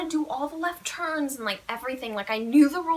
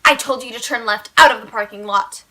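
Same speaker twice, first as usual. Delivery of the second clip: mock stern examiner; 2 semitones lower, 7 dB louder than usual. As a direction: lay down the order like a cross examiner. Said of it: "And she's like".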